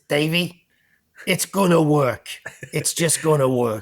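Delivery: bad Boston accent imitation; hammed-up Boston accent. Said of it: "That's a terrible Boston accent".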